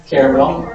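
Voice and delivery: "Caramel" as three syllables with a rising end; pronunciation demo. Shown as a demonstration. Teacher testing a second version of "Caramel". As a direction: offer "Caramel" in three beats. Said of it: "How would you pronounce that word?".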